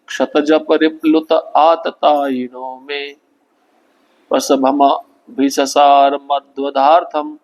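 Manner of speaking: slow, measured chanting of a shloka; slow Sanskrit verse recitation. Acted. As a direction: intone each syllable of the verse slowly and devoutly.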